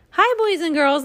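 high, squeaky monkey puppet. A narrator's reading. Monkey puppet greeting boys and girls, squeaky. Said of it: "said in a squeaky voice".

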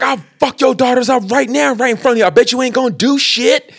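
high-pitched imitated threat, not shouted; mock confrontational. Man threatens the daughters, mock confrontational. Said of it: "the most confrontational way".

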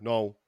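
NO as a Brummie way of saying Niall; Birmingham pronunciation. Retold or imitated. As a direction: mimic the buddy giving his name, Niall squashed into "No". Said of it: "when he says Niall, it comes out like".

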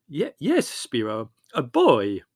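beam as you announce it. A narrator's reading.

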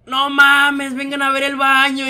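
loud, high, drawn-out call; alarmed call. Retold or imitated. Supervisor calls coworkers to the bathroom, alarmed shout. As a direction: call out in disbelief, stretching the words.

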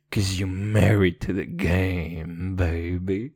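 low, slow sexy drawl; deep rapper voice. Acted. Gangster rapper persona, slow deep voice. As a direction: savor it low like a smooth gangster.

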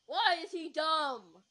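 loud, high, drawn-out wail; exasperated outburst. Acted. Disappointed about the cute guy, exasperated outburst. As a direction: wail it slowly in mock despair.

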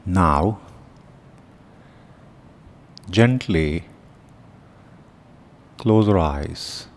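calm instructions with long, unhurried pauses; guided meditation. Real, not acted. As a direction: guide them gently into the breath, leaving silence between phrases. Leads guided breathing meditation.

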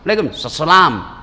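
"Waalaikumsalam" mumbled into "lekum salam"; lazy salam. Retold or imitated. Preacher mocks lazy repliers, "Waalaikumsalam" half swallowed. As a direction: swallow the start of "Waalaikumsalam", lazily. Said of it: "Jangan terlalu malas".

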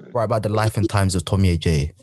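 lightly put-on British accent. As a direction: say it like a posh Brit, just a hint. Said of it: "I'm speaking in British accent".

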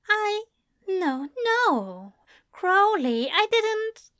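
high, flustered protest; flustered angel. A narrator's reading. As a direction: stammer out a denial. Aziraphale protests anxiously.

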